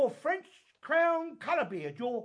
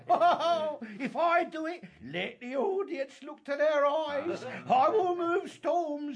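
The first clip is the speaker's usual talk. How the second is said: laughing, grand boast; excited boasting; 5 semitones higher, 4 dB louder than usual. Acted. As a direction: brag with a laugh.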